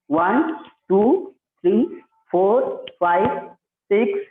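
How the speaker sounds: steady yoga count with rising numbers; drawn-out instructor's count; exercise counting. Acted. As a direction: count out reps, pausing after each number.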